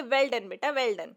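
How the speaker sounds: affectionate praise. Acted. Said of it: "बहुत ही affectionately, प्यार से".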